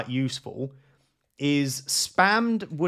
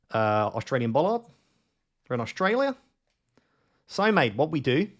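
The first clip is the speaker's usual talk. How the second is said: hammed-up Australian accent with rising line ends; bad Australian accent. Streamer explaining road clues to viewers, mock Australian accent. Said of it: "Such a bad accent".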